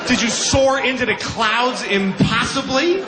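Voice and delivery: sarcastic amazed listener; mock awe. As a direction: ham up the marvel of flight. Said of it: "mocking listener".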